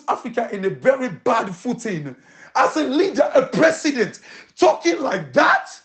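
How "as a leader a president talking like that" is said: incredulous laugh through the words; scoffing laughter, a touch higher; laughing in disbelief. Real, not acted. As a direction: laugh at how absurd the remark is. Mocking the president's statement.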